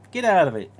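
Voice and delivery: high, loud, laughing brush-off; laughing dismissal. Acted. Dismissing the pestering fan, laughing loudly. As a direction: shoo it away while laughing.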